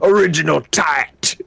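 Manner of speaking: a touch of Scouse on original Tat; Scouse twang on Original Tat, slow and drawn out; mock Scouse. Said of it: "not Scousy or something like that".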